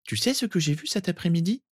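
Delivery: put-on high-pitched child's voice; confiding small boy. Sirius telling cousin his news, confiding. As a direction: share news like a little boy.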